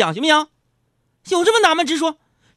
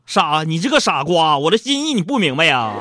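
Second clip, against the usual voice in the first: coy teasing tone; 3 semitones lower than usual. Shown as a demonstration. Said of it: "你没听明白我这个语气啊".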